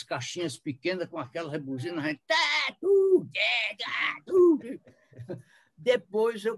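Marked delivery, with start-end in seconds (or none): 2.0-4.6 high honking horn noises, tá and tu; imitated horn honks. Describing the horn instrument to the host, mock honks. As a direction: honk it out like little car horns.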